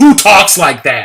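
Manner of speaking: slow, loud, drawn-out tone of incredulous disbelief. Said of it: "I went like".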